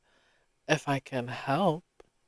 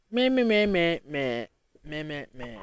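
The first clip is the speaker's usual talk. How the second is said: mocking meh. Real, not acted. Mocking the search results.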